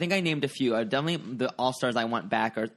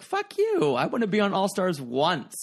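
sassy queen; 4 semitones higher than usual. Retold or imitated. Voicing hypothetical queens.

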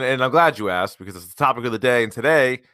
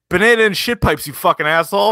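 mock angry yell; 5 semitones higher, 4 dB louder than usual. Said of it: "He goes".

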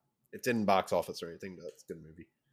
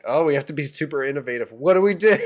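panicked mock voice; 5 semitones higher, 7 dB louder, faster than usual. Mocking panicked people Y2K.

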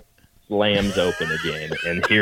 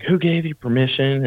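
mock angry demand; 8 semitones higher, 3 dB louder than usual. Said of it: "she's like".

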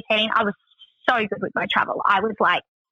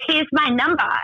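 higher-pitched mock driver; imitated Russian driver; 6 semitones higher than usual. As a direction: play the driver offering contact details. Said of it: "And he goes".

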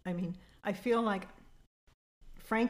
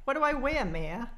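high whiny playful plea; playful pleading; mock plea; 6 semitones higher, 4 dB louder than usual.

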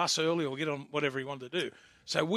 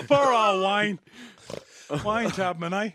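laughing sympathy; 5 semitones higher, 8 dB louder, much slower than usual. Real, not acted. Laughing about mate's injury.

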